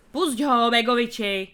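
put-on loud call to let the boy go; shouting. A narrator's reading. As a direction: workers yelling at the policeman. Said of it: "křičeli dřevaři". (hlasité volání)

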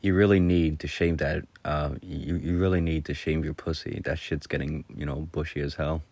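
deadpan mock advice; straight-faced. Teasing a friend on the couch about the cat, straight-faced. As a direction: keep a straight face through the double meaning. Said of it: "and with a straight face".

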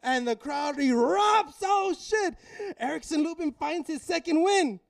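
high, stretched-out play-by-play; excited fight call. Retold or imitated. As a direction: narrate the knockdown at fever pitch. Excited re-enactment of the knockdown.

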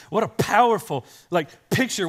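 ordinary delivery

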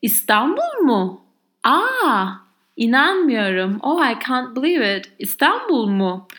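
hammed-up shocked gasp; mock shock. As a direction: act amazed and disbelieving. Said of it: "I am really shocked".

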